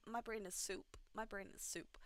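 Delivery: quiet, worn-out mumble; tired mutter. Real, not acted. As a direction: mumble it, exhausted. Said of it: "tired after late night".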